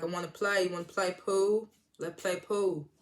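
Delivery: badly faked British accent; attempted British accent. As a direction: have a half-hearted go at British. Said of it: "I can't do a British accent".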